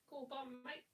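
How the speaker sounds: badly faked Australian with a rising end; bad Australian accent. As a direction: toss it off in a fake Aussie accent. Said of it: "do a really bad accent".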